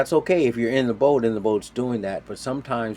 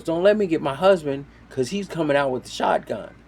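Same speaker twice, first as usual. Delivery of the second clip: imitated threat; 6 semitones higher, 3 dB louder than usual. Landowner threatens boaters.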